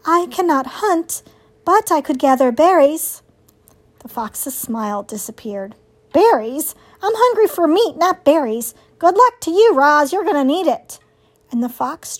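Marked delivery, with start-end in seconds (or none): 0.1-3.2 lightly voiced robot, pitched higher; higher, measured robot heroine. Robot answers the fox. 6.1-11.0 higher, scoffing fox voice; disgusted fox, brushing someone off; scornful fox. Acted.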